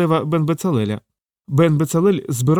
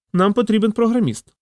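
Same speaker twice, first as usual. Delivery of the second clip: meaningfully; 9 semitones higher than usual. Acted. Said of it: "проникливо сказав Роман".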